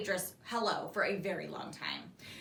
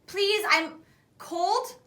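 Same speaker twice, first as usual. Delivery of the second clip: slow whiny plea; 9 semitones higher, 5 dB louder, much slower than usual. A narrator's reading. Livy pleading.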